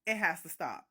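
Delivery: low, level finality; firm granny verdict. Retold or imitated. Granny looking at narrator, low firm verdict. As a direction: drop it down and lay down the law.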